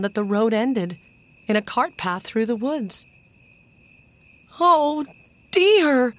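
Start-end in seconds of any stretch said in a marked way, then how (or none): 4.6-6.1 high, loud cry of disappointment; two high, separated words of dismay; dismayed exclamation. A narrator's reading. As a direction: exclaim as if close to tears. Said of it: "exclaimed Jess, almost ready to cry with disappointment".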